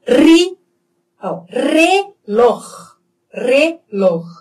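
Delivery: "reloj" slowly, rolled R first, rasped throat sound last; trill and throat R. Shown as a demonstration. Teacher shows both Rs together, trilled and throaty "reloj". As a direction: roll into "reloj" and end in a throaty scrape. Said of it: "o R vibrante e o R na garganta".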